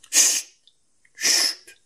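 a loud shush fading into a breathy hush. A narrator's reading. White Rabbit anxiously hushing Alice. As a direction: shush her urgently. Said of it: "a voce bassa e parlando in fretta".

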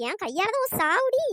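mock menace. Mock threat, teasing.

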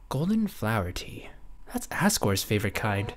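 hushed secret whisper. Acted. Undyne confides a secret.

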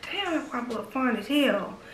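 huffed very softly under the breath; a low huff meant only for herself. Retold or imitated. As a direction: breathe it out so nobody else hears. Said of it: "huff it underneath my breath".

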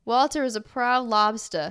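lightly put-on Boston accent. Reading the book description aloud, light Boston accent. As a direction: read it with a touch of Boston. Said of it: "with heavy Boston accents".

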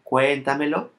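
Cuéntamelo with stress on "Cuén", rising at the end; stressed first syllable. Shown as a demonstration. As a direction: lean on "Cuén" in Cuéntamelo, lift the final syllable. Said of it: "syllable before the third".

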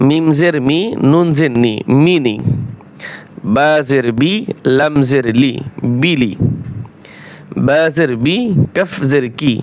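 measured singsong spelling, then the blended word; Qaida spelling drill. Shown as a demonstration. Teacher joins letters into words for learners, measured drill recitation. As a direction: spell it out evenly, let the joined word fall.

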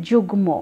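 যুগ্ম as jug-mo, with a clear m; ম sounded. Shown as a demonstration. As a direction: sound the m in যুগ্ম, no nasal vowel. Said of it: "দেখো ময়ের উচ্চারণ কিন্তু এসেছে".

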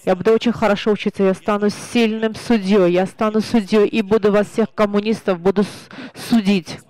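loud, fast furious vow; a child hurling his promise at his accusers; enraged boy. Retold or imitated. Preacher voicing the furious boy shouting at the communists. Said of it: "этот ребёнок разъярённый".

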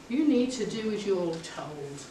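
slow, measured order in an imitated voice; commanding tone. Imitated inner voice telling her to obey, slow and commanding. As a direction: imitate a voice laying down the rule. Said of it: "In that tone".

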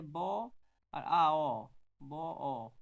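consonant "ব" and vowels "আ, অ" sounded out singly; separated sounds. Shown as a demonstration. Teacher splitting consonant from vowel, "ব" and "অ" sounded separately. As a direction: isolate "ব" then "আ, অ", loud and held. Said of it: "ব্যঞ্জন এবং স্বর দুটো মিশ্রিত".

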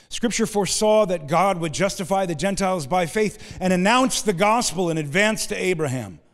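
declaimed verse with weight on "foresaw" and "announce"; emphatic scripture reading. Real, not acted. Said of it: "I said it with emphasis".

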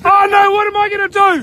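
dismayed holler; yelling. Real, not acted. Angler to his mates after losing the rod, yelling. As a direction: shout it in excited dismay. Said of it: "Stop yelling at me".

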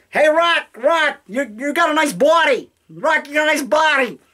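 mock a drunk fan calling at 2am; imitating drunk fans. Late-night prank caller gushing at the actor, hammed-up imitation. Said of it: "They would call me up late night and say".

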